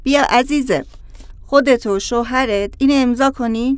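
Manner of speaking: put-on lightly provincial Persian accent; a hint of a rural accent; doctor with a slight country accent; non-urban accent.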